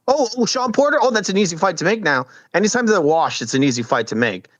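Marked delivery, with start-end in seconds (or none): 0.1-2.2 high, sing-song mocking Asian accent. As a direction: mimic the rival with an Asian accent. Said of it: "why do you make him sound Asian?".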